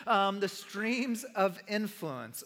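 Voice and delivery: each word laid down slowly; slow deliberate. Shown as a demonstration. Pastor repeating sermon title slowly to church. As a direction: spell the title out slowly for them.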